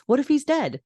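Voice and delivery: retold panic. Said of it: "And then Lorelai says".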